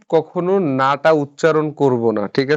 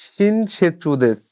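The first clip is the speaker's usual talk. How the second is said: 1 slow model sentence; 3 semitones higher, much slower than usual. Shown as a demonstration. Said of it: "বা পপিসান ওয়া".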